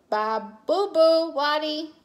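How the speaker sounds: high baby-voiced telling-off; baby talk. A narrator's reading. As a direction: drag out a toddler's babbled scolding. Baby Louie imitates the scolding.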